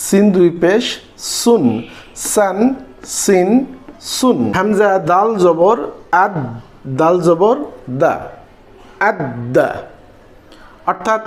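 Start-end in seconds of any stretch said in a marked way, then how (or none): 4.6-9.7 "আদ, দা" with the দাল sounded twice, once closing আদ and once opening দা; teacher spelling out "আদ, দা" so the দাল is heard twice; doubled dal. Shown as a demonstration. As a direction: hold the দ in "আদ" then release it again in "দা". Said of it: "এখানে দালটা double উচ্চারণ হলো".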